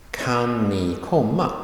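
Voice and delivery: short Kan ni, then stressed komma with a rise. Shown as a demonstration. Teacher showing helping verb plus main verb, stress on komma. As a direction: lean on komma and lift its end. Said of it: "That gets a stress".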